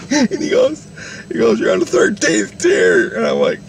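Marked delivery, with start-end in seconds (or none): 1.6-3.2 high, slow mock shout; drawn-out, exclaimed news; retold exclamation. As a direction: announce it as a big high-pitched reveal. Jesus announcing the tier, retold.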